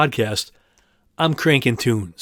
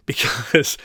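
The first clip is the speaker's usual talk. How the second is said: whispered laugh. Real, not acted. Laughing while telling.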